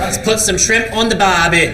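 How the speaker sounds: playful mock-Aussie catchphrase; Australian accent. Host joking to the Australian fans, mock Australian accent. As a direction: ham up an Aussie accent, amused.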